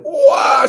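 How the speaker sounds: high mock "waah" scream; a quick high wail, mimicking screams; imitated kids' scream. Reader voicing screams from the kids, mock scream. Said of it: "screams from the rest of the kids".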